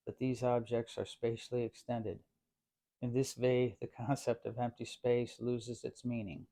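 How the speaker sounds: badly faked German accent, measured quote reading; pathetic German accent. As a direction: put on a hammy German accent as Einstein. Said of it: "pathetic attempt at a German accent".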